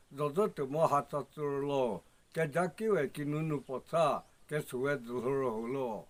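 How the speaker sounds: steady chanted verse, even beat; measured sing-song recitation of a folk chant; rhythmic verse recitation. Acted. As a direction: recite line by line with a falling close on each line.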